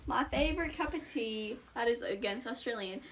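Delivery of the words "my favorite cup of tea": lightly attempted British accent. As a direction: answer in a mild British accent. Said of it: "start us off with a British accent".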